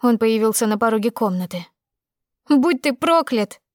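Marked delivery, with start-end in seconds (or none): 2.5-3.6 slow, higher tearful curse; shouting through tears. Acted. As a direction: hurl the curse while crying. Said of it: "закричала я сквозь слёзы".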